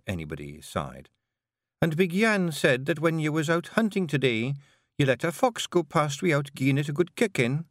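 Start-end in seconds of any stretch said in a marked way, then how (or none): 1.8-7.7 lightly voiced Scottish pixie wife, teasing; a gentle Scots lilt for Jeanie; a hint of a Scottish wife; Jeanie, Scottish Feegle wife. Jeanie continues reporting.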